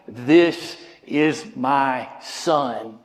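slow, low, solemn voice of God; a hint of a deep divine voice. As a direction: speak as God declaring his son. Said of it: "hear the very voice of God going".

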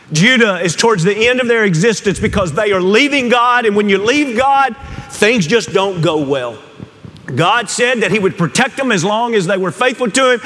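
high-pitched, impassioned sermon delivery; preaching at full force. Real, not acted. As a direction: preach it hard, pitch climbing on each phrase.

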